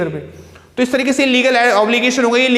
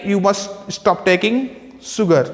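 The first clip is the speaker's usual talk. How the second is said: slow dictation; much slower than usual. Shown as a demonstration. Teacher reads example sentence slowly.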